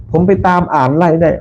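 imitating slowly. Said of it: "ช่างตั้มบอก".

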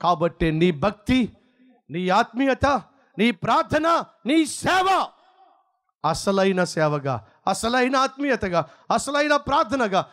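rising, shouted peaks, then low falls; fiery preaching. Acted. Preacher challenges the congregation in fiery preaching.

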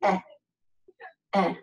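Eh as in the English word bet; a separate, short Eh for each take; short E sound. Shown as a demonstration. Teacher showing the E vowel, isolated Eh as in bet. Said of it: "in the English word for bet".

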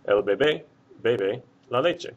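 bebé then bebe, stress shifted between them; careful contrast. Shown as a demonstration. Teacher contrasting bebé and bebe in one careful sentence. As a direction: say each clearly so the shift is heard. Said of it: "hopefully you can hear the difference".

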